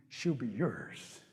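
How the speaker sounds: very slow, low, soft promise; enticing. Acted. Rabbit luring Possum into the trap, enticing. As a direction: dangle the prize, drawing each word out.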